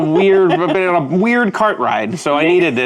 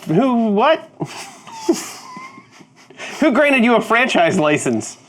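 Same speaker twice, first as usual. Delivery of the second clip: higher, sputtering indignation; indignant disbelief; 7 semitones higher than usual. Acted. Owner questioning a supposed franchisee, indignant. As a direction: demand answers in a higher, offended voice.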